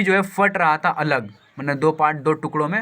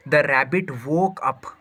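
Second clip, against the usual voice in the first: slow dictation; much slower than usual. Shown as a demonstration. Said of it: "teacher reading slowly".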